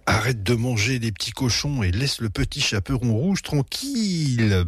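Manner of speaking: ordinary delivery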